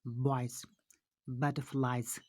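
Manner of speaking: बॉयज, बटरफ्लाइज each ending in voiced Z; final Z sound. Shown as a demonstration. Teacher drilling pupils on end sounds, voiced Z closing बॉयज, बटरफ्लाइज. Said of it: "इसका एंड sound ज है".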